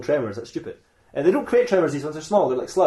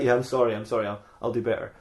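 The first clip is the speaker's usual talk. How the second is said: lower, trailing-off apology; sheepish apology; 4 semitones lower, 5 dB quieter than usual. Acted. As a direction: apologise meekly, dropping away softer. Scolded robot apologising.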